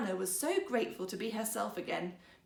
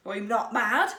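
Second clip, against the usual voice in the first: louder, insistent denial; loud protest; 9 dB louder than usual. Acted. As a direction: insist firmly, raising voice. Husband insists on his sanity.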